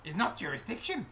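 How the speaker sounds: put-on wary accented goblin official; goblin guide. Goblin guide passing inspectors to the gardener, wary accented voice. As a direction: disclaim it in broken, accented English.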